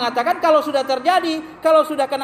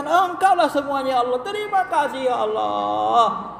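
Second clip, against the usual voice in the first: acted thanksgiving. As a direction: imitate a grateful believer praying. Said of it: "dia bersyukur".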